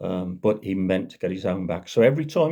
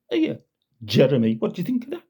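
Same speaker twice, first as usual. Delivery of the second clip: shrill mocking challenge; high taunting constable; 4 semitones higher, faster than usual. Constable taunting Jeremy about the keyed car, high and gleeful. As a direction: jeer at him with glee.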